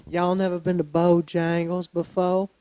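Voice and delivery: put-on Southern girl accent. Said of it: "with that accent".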